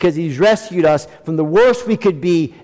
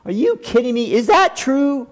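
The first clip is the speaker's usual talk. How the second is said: astonished disbelief; 2 semitones higher than usual. Pretend. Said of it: "you're like".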